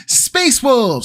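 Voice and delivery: howled high like a wolf. Acted. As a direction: howl the words like a wolf. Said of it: "do a Space Wolf howl".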